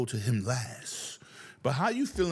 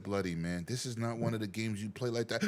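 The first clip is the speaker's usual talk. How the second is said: calming him down; 6 semitones lower, 3 dB quieter than usual. Retold or imitated. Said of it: "I said".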